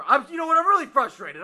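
loud and high, venting frustration; frustrated outburst. Acted. Caller unloading his anger on the podcast hosts, loud. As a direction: blow up at the hosts.

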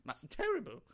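terrible British accent. Shown as a demonstration. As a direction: toss out a bad fake British accent. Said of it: "And mine are terrible".

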